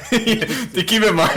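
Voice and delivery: high, slow, laughing words. Real, not acted. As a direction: laugh your way through it. Laughing while speaking.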